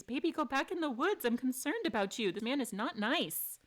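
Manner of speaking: anxious tender coaxing; worried urging. Real, not acted. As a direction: gently shoo him back to safety. Urging Robinette to hide.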